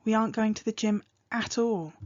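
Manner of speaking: "aren't" stressed, "at all" set apart; emphatic denial stress. Shown as a demonstration. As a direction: lean on "aren't", then land on "at all". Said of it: "the way you stress the words in a sentence".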